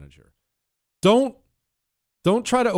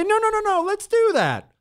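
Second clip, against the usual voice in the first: much higher, eager to please; eager good guy. Retold or imitated. The salesman playing the good guy to the couple, much higher and eager. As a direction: jump in all helpful and keen. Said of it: "I jump in as the good guy".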